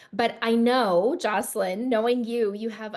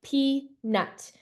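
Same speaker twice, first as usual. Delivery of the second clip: "peanut" said as two separate beats, pea-nut; split into syllables; 4 semitones higher than usual. Shown as a demonstration. Teacher showing syllable tapping, "peanut" in two beats. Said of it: "tapping the syllables".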